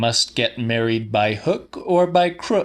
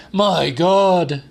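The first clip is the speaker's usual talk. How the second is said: shocked exclamation; 6 semitones higher, 4 dB louder than usual. A narrator's reading. Old man's exclamation.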